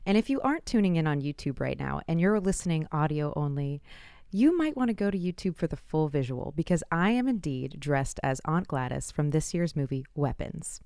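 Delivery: ordinary delivery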